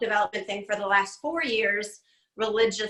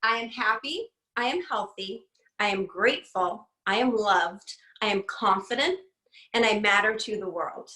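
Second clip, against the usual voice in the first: mantra on request. Shown as a demonstration. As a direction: recite it like a daily affirmation. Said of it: "Can you say that one more time".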